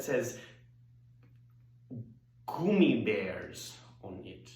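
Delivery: theatrical confiding cabaret monologue; Hedwig, sly storytelling diva. Acted. Singer recounting meeting Luther, sly and confiding.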